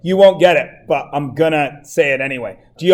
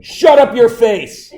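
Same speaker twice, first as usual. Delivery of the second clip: a hint of mock scolding; playful scold; 5 semitones higher, slower than usual. Real, not acted. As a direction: tease the class to hush. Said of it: "teasing students".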